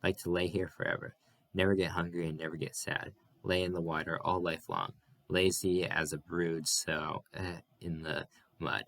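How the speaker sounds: Noah soaking in the river, dreamy and idle; lazily. Acted. Noah lolling in the water, lazy contentment. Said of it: "and Noah said lazily".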